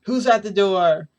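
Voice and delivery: strained voice. Retold or imitated. Toshinori answers a knock at the door, strained voice. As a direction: call out with strain, drawing it out. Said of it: "in a strained voice".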